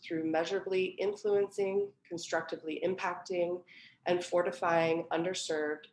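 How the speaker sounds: measured, clearly read welcome speech; curator's prepared introduction to a reading; formal introduction. Real, not acted. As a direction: read the event introduction aloud, presenting each name and title. Reads a prepared event introduction.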